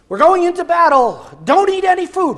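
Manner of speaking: high, loud barked order; Saul's stern command. Acted. Saul ordering his hungry soldiers, loud and high. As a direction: bark it like a harsh king.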